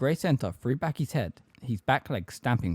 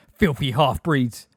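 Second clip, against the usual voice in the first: loud, slow, spat-out abuse; screamed insult; 3 semitones higher, 5 dB louder, slower than usual. A narrator's reading. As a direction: scream the insult, stretching the words. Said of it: "she screamed".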